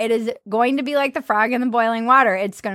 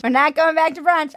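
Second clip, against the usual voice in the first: higher, rallying slogan voice; political slogan; 5 semitones higher than usual. Retold or imitated. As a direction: proclaim it like a candidate. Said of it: "I should run for Congress".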